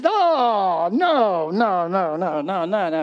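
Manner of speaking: drawn-out wail tumbling into rapid refusals; mock horror. Preacher imagining the Pharisees' reaction to Jesus, mock horror. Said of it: "imagine what they were thinking".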